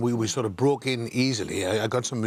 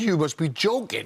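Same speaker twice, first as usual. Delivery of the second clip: higher, mock-incredulous retort; retold disbelief; 5 semitones higher than usual. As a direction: imitate her disbelief, pitched up. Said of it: "she couldn't believe it".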